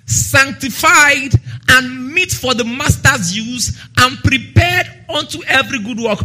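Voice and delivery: measured, slow first reading of the verse; slow scripture reading. Acted. Preacher reads the verse to the church, measured. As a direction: read it slowly and steadily. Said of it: "first slow reading of the verse".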